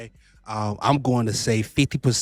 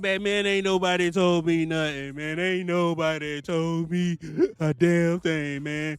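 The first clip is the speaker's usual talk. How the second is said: a mock whiny driver, a touch higher; lightly voiced frustrated trucker; complaining broke driver; 3 semitones higher than usual. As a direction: whine like a driver who wasn't warned. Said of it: "I don't want you out here saying".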